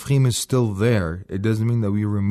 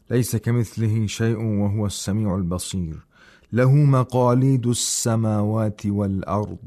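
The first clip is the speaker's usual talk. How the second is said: measured tajweed recitation; Quran recitation; much faster than usual. Shown as a demonstration. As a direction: recite the verse with long vowels. Recites the verse.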